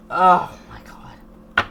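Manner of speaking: breathy shocked whisper; whispered oh my God. Real, not acted. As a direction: gasp it under your breath. Shocked aside mid-reading.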